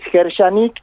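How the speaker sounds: "Gershanik" with sh and a closing k; K final. Shown as a demonstration. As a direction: end "Gershanik" on an audible k. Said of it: "que tiene una K final". ("Gershanik" pronunciado con k final)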